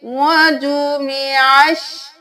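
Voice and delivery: slow melodic chant with long pauses; tajweed recitation; Quranic recitation. Shown as a demonstration. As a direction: recite each word drawn out. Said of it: "ہم آئین کو شین کے ساتھ ملائیں گے".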